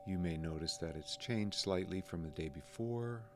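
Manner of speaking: calm, unhurried meditation guide, pausing between phrases; lightly softened guiding voice, leaving room to breathe; guided meditation. Real, not acted. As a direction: gently guide listeners through noticing the breath.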